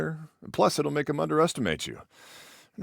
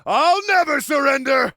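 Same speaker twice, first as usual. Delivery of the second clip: hammed-up defiant cry, high and loud; mock supervillain; 10 semitones higher, 4 dB louder than usual. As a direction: declaim it like a cartoon villain. Continues villain act.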